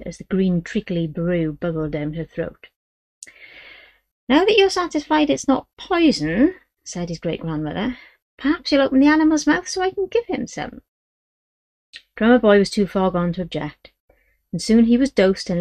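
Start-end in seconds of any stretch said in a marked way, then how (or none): 4.3-6.6 put-on a suspicious old gypsy great-grandmother; old gypsy woman. 8.4-10.8 put-on a suspicious old gypsy great-grandmother; old gypsy woman.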